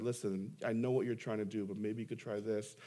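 put-on older pastor gently correcting; gentle advice. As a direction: ease him through it lovingly. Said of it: "lovingly walked me through".

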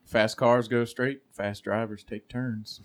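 slow, weighty wise-man delivery; solemn proverb. Acted. Delivering a mock wise quote.

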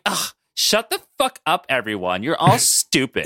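bitchy, exasperated put-down; annoyed. Retold or imitated. Sue snaps at the whole team, annoyed and bitchy. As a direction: open high on a disgusted ugh, then drag out the insult. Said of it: "so annoyed by everything and kind of bitchy".

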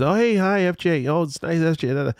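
high, bubbly mock fan voice; imitating gushing strangers. Strangers gushing over his FJ, high mock-bubbly imitation. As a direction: parody an overeager admirer of the truck. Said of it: "people always".

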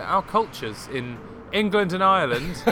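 a hammed-up version of her own innocent question; mock naive self. Retelling what she said to an Irish person, mock earnest. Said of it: "I was like".

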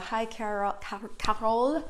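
badly faked French accent, drawn out; terrible French accent. Host greeting a viewer by name, in a mock French accent. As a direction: attempt a French pronunciation of the name. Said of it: "That's my terrible French accent".

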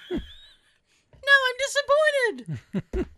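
laughing tease. Real, not acted. Teasing her friend about the cults, laughing.

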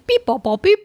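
mock computer beeps; Data robot beeps. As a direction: beep like a little android. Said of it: "was würde Data dazu sagen".

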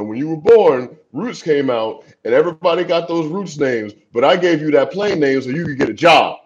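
a fond hint of a Missouri mama; imitating his mom. Son retelling his mother's advice about his name, laughing.

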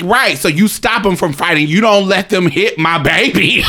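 protective mother. Retold or imitated. Mother telling off the other woman, emphatic imitation. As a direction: lay down the law as a mother. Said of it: "my mother was like".

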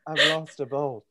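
put-on loud grumpy old man. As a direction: bark it like an old handyman. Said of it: "Was he smoking a long stick cigarette".

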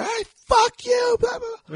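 high, drawn-out shouted curse; retold screaming. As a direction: yell it as if out a car window. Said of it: "she just starts screaming out the window".

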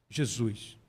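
ordinary delivery

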